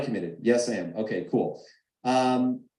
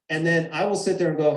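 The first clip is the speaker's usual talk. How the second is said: ordinary delivery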